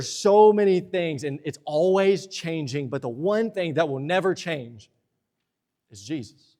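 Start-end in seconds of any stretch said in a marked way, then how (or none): 5.9-6.6 soft emphatic reveal. Real, not acted. Sermon climax after building.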